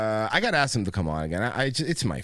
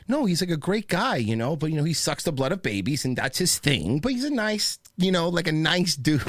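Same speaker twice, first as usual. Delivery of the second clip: lightly mimicked prep-school snark; a hint of snarky prep-school impression; Tucker Carlson; 4 semitones higher than usual. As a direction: imitate a pundit's backhanded praise, pitch lifting. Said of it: "how Tucker goes like".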